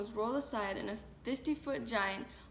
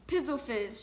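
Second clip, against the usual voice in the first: shouting; 3 semitones higher, 3 dB louder than usual. Acted. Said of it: "shouted the Blood Bottler".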